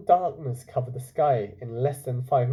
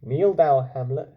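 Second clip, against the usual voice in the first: command; 4 dB louder than usual. Acted. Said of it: "he said".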